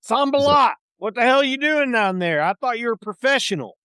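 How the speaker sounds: captain scolding Sambalat down in the boat; angry pirate captain. Acted. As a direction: chew Sambalat out from the deck.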